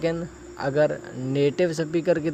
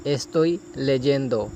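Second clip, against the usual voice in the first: slow, careful Spanish, each syllable clear; slow model phrase; much slower than usual. Shown as a demonstration. Teacher modelling a Spanish phrase for students, slow and careful. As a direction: model it slowly for learners. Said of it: "جیسا یعنی کہ تلفظ آپ".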